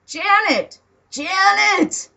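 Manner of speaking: high, loud call to get her attention; exasperated loud hail. Acted. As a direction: shout her name across the room. Calling out to Janet.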